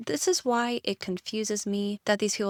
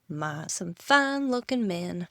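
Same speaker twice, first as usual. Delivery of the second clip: put-on southern accent; slower than usual. Reading the flirty grandmother to the men in a slow southern accent. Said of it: "I gave her a southern accent".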